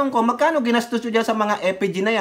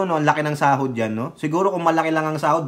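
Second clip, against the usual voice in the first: ordinary delivery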